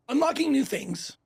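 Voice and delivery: ordinary delivery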